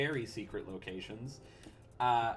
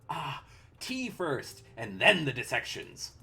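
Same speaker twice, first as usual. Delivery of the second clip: cheery mad scientist. Acted. Mad genius god.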